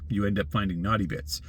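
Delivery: ordinary talk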